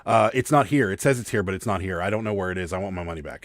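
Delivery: retold customer complaint, loud at first, then settling; imitated upset caller, easing off toward the end; freaking-out caller. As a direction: launch in loudly as the demanding buyer. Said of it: "he's freaking out".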